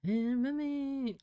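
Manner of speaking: epic voice. Pretend. Grandiose mock epic declaration.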